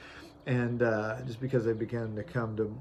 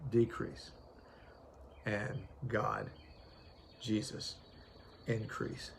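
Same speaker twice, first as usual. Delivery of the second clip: hushed reflection; 2 semitones lower, 13 dB quieter, slower than usual. Real, not acted. Preacher asks himself, intimate.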